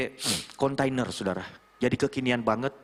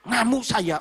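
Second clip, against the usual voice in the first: high-pitched exasperated outburst; imitated frustration; 8 semitones higher, 3 dB louder, slower than usual. Young man admitting to his mentor he rages, imitated frustration. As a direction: blurt it in aggrieved frustration.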